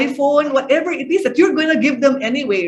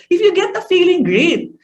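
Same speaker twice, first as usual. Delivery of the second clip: negative threat; 3 semitones higher, 4 dB louder than usual. Shown as a demonstration. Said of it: "how would you say it differently?".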